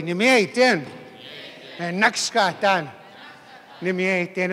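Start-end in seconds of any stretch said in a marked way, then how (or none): 0.0-2.9 firm, punched first word; with authority. Shown as a demonstration. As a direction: say it like you mean it. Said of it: "say it with authority".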